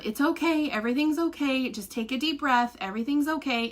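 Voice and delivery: lightly imitated soothing nurse; reassuring. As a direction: gently mimic calming a patient down. Nurse soothing the patient, retold.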